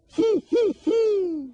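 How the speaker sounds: very high, loud whinny; high loud horse whinny. Shown as a demonstration. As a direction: neigh like a horse. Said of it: "El caballo dice".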